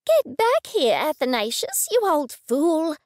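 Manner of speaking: high, loud scolding scream. A narrator's reading. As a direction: yell after him furiously. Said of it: "Oleander screamed".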